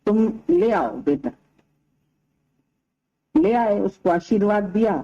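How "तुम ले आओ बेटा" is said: low-pitched voice of a saint; reassuring saint. Retold or imitated. Saint asks the parents to bring their son, reassuring. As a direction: drop low to voice the saint's gentle request.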